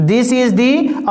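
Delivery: very slow, the stretched; very slow drawn-out dictation; dragged-out dictation. Shown as a demonstration. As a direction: hold each word long. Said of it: "drags out "the".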